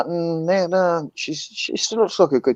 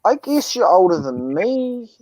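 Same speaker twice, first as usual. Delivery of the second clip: slow; 5 semitones higher than usual. Real, not acted. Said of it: "Benjamin, you sound like a stoner".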